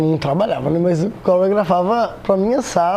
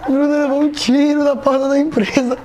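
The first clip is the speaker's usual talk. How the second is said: panicked mother voice; 7 semitones higher than usual. Retold or imitated. Mother voiced shouting that her son was shot, high. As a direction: cry out that Bruno was shot at the company door.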